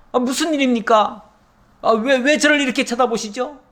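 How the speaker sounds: a man caught off guard, pleading to know why; startled question. Acted. Startled Hazael questions the prophet.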